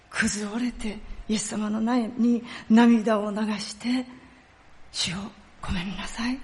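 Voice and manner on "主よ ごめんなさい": hushed, lower apology to God; near-whispered plea for forgiveness; penitent prayer. Acted. Acted prayer of repentance. (悔い改めて小声で祈るように)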